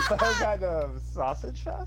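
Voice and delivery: laughing. Real, not acted. Repeating the sausage fest joke.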